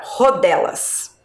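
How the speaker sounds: rodelas with a strong H-like first R; rodelas, starting on a breathy strong R. Shown as a demonstration. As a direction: push the opening R of rodelas. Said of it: "eu pronuncio forte".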